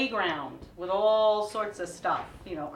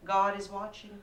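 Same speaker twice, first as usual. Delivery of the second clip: much higher, sing-song farewell with a loud threatening turn; sweet mock-cheerful warning; 10 semitones higher, 7 dB louder, slower than usual. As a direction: chirp goodbye, then slip in the menace. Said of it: "I'm like".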